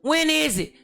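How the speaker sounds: hesitant agreement. Retold or imitated. Retelling own reply to urgent invitation.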